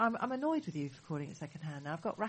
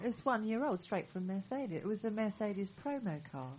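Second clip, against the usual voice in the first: muffled, as if through a wall; dull, far-off muffled sound; 2 semitones higher, 7 dB quieter than usual. Real, not acted. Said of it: "I'm very muffled".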